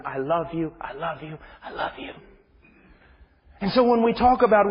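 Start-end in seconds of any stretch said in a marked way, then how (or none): 0.0-2.1 soft repetition fading to whisper; mild tender fade-out. Acted. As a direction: let each repeat grow softer. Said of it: "God screaming out to His children".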